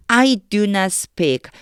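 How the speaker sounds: each word read very slowly; slow careful reading. Shown as a demonstration. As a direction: spell it out slowly for students. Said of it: "그럼 다시 해볼게요". (한 단어씩 아주 천천히 읽기)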